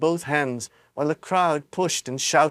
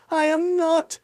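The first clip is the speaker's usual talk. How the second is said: cried; slower than usual. A narrator's reading. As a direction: insist. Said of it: "cried Charlie".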